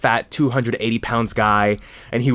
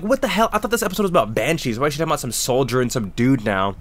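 exasperated retelling, settling down by the end; retold exasperation; faster than usual. Retold baffled reaction to TV show.

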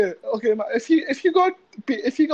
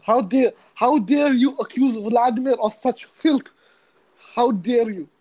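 offended Russian. Acted. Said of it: "Do your Russian one".

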